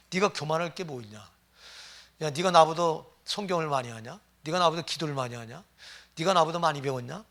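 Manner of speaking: mock scolding, punchier on some lines; retold rebuke. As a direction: lightly re-enact scolding a proud man. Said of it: "대놓고 제가 책망한 적이 있습니다". (가볍게 재현한 꾸짖음)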